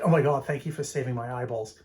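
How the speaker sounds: lightly imitated Australian accent; bad Australian accent. Australian thanking the speaker after looking it up, mock Australian accent. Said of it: "that's my bad Australian accent".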